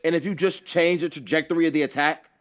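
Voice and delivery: teacher calling out a warning; firm yell. Acted. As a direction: shout the warning across the room. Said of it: "But Aizawa yells".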